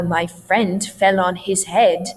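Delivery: HIS HEAD with H's articulated; formal dialect, H's kept; formalized H's. Shown as a demonstration. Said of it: "formalize my speech in this dialect".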